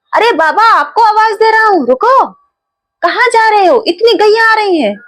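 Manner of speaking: a lightly voiced young boy calling out to stop him. Young cowherd boy warning the old sadhu, lightly voiced and calling. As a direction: call after the old man like a village boy. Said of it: "बालक ने फिर से आवाज दी".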